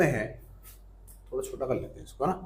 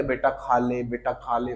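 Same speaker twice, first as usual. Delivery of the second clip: soft coaxing mother; 4 semitones lower, 5 dB quieter than usual. Retold or imitated. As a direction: gently urge the child to eat. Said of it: "जोड़ देती है". (माँ का प्यार भरा आग्रह)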